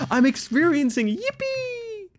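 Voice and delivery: high, slow squeaky yippee creature voice. Pretend. Streamer playing the yippee character, high and slow. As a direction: squeak it out slowly like a tiny gleeful creature.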